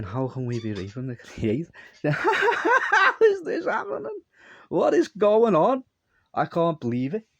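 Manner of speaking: imitating stoned hysterics, climbing into a very high, loud squeal; laughing disbelief. Retelling how stoned men reacted, in high, laughing disbelief. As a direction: act out incredulous giggling that shoots up high and stretches out. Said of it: "can't get the tone of voice across".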